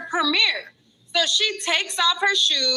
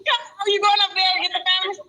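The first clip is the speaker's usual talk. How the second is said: laughing; 5 semitones higher, much faster than usual. Real, not acted. Laughing while calling to a friend.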